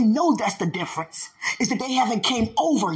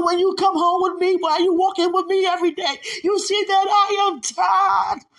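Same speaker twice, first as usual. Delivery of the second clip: weary prayer; 5 semitones higher than usual. Acted. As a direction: pour out the complaint to God, rising to a cry. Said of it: "What many really want to say".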